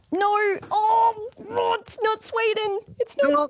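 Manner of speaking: high-pitched cry of dismay; playfully anguished high protest; dismayed outcry. Real, not acted. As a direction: wail it out high at yet another wrong answer. Host despairs at wrong answer.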